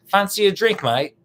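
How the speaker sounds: high, loud mock British accent. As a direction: toss it out like a TV Brit. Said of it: "with the British person".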